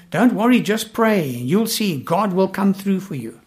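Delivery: brisk upbeat radio-preacher cheer, lightly voiced; breezy and a little too cheerful, lightly mocked. Preacher mocking glib Christian radio, in a light upbeat voice. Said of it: "I hear them talk like this".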